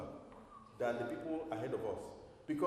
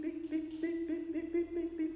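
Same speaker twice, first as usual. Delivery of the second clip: much higher, ticking like a clock; 13 semitones higher than usual. Shown as a demonstration. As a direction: tap out each tick like a clock hand. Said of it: "Doesn't your life feel like tick".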